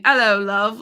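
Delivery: a light British greeting, love stretched out; British accent. Retold or imitated. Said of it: "he just kept talking in a British accent".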